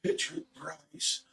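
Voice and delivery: slow, high, thin whisper of a name; faint slow reply. Retold or imitated. Sick wife faintly answering her husband, slow high whisper. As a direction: drag it out weakly, barely voiced. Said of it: "And she goes".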